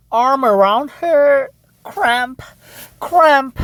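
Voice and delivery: mock breathless entrance, word by word; acted out of breath. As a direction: gasp out the news in fragments. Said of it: "she was entering out of breath".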